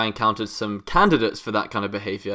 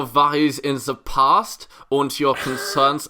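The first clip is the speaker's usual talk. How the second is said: slow, lightly raised mock-spiritual guide; a hint of a self-help preacher; mock guru wisdom; 4 semitones higher, 4 dB louder, slower than usual. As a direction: play the wise teacher, half in jest. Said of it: "I really hoped it was something like".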